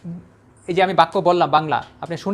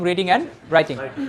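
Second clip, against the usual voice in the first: slow spelled-out; much slower than usual. Shown as a demonstration. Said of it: "slow demo".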